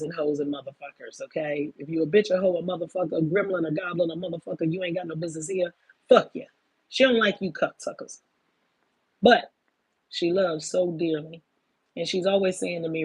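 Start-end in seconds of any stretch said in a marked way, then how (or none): 6.1-8.2 loud curse. Real, not acted. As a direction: spit it out loud at them. Cursing out the bad people.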